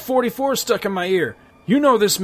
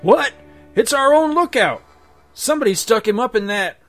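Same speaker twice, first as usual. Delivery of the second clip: high, loud shocked yell; shocked outlaw; 10 semitones higher, 9 dB louder than usual. Acted. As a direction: cry out in disbelief. Bandit shocked at corpse.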